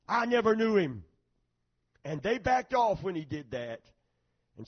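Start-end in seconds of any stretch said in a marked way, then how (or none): 0.1-1.0 loud, higher, forceful denial; preacher's booming, emphatic denial; emphatic oath. Retold or imitated. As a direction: swear it emphatically, raising the voice. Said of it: "He said it the most emphatic way".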